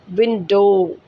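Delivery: विंडो with a long pure o; long o sound. Shown as a demonstration. Teacher shows the long o in विंडो to her class. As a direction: stretch the o in विंडो. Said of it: "ओ की sound को long कर दिया है".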